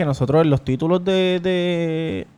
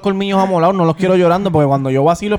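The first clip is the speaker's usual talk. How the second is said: laughing mock threat; 3 semitones higher than usual. Real, not acted. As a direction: tease them through a laugh. (amenaza en broma riéndose)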